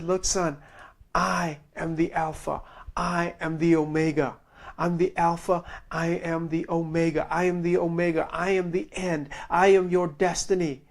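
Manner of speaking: a hint of a soft, calm divine voice; voice of the Lord. The Lord comforting the preacher, lightly voiced, soft and calm. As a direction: lightly voice God reassuring a son, softly. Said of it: "the Lord spoke to me".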